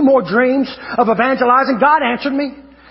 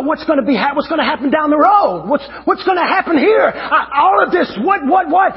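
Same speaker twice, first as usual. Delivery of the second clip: fretting questions, climbing in pitch; re-enacted worry building to a high stammer; anxious questioning; 5 semitones higher than usual. Preacher recalling his insecurity about the road, anxious mock fretting.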